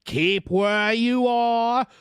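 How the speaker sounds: high, drawn-out warning call; called order. A narrator's reading. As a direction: halt someone at a distance. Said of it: "the guard called to the voice in the mist".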